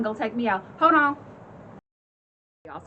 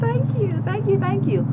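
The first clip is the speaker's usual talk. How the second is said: giddy thanks; 9 semitones higher than usual. Retold or imitated. Thanking the cheering audience.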